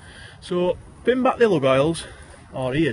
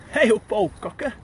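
Yorkshire greeting; 6 semitones higher than usual. Shown as a demonstration. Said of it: "Another way we'd greet is".

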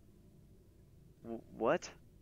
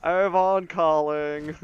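Avon lady; 4 semitones higher, 10 dB louder, much slower than usual. Pretend. Mock doorbell salesman call.

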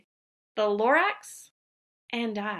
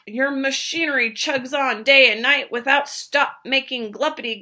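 louder scolding creature voice; cross Lorax; 5 dB louder than usual. Acted. Lorax scolds the dirty old Onceler, louder. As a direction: scold him, dander up. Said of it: "snapped the Lorax, his dander was up".

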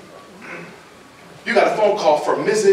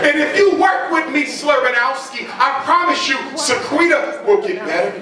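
pleading mother; 5 semitones higher than usual. Acted.

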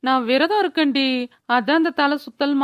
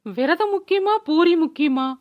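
tearful lament; 3 semitones higher than usual. Acted. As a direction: wail the dilemma theatrically. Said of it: "திடீர்னு அழுவுற". (அழுகையான புலம்பல்)

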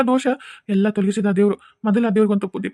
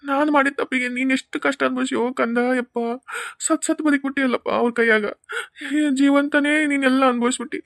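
tearful father; 3 semitones higher than usual. Acted. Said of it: "ಅಳ್ಬೇಡ".

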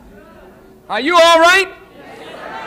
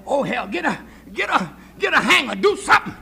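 desperate stammering; 5 dB quieter, much faster than usual. Acted. Acted desperate search for abortion.

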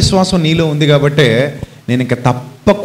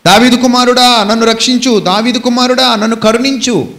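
high-pitched pleading call; crying out; 5 semitones higher than usual. Retold or imitated. Blind beggar begging mercy over the crowd, crying out. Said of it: "గట్టి గట్టిగా కేకలు వేస్తుంటే".

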